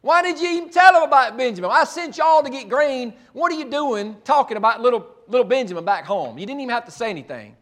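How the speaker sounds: put-on a father berating his boys for talking too much; angry frustration. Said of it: "filled with anger and frustration at the boys".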